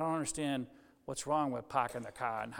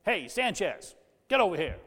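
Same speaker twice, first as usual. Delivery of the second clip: a casual hail by last name, louder; calling out; 4 semitones higher, 5 dB louder than usual. Retold or imitated. Preacher showing how friends call you by surname, calling out. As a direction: call out Hey, Sanchez across a room.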